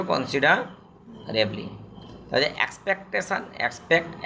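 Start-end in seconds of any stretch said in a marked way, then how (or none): 0.0-1.7 slow dictation. Shown as a demonstration. Teacher repeating for students: slow and clear. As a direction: spell out কনসিডারেবলি slowly, syllable by syllable. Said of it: "এটা কী ছিল?".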